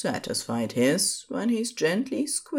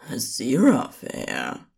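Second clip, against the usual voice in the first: scandalized. Acted. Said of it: "a delightfully scandalized tone to his name".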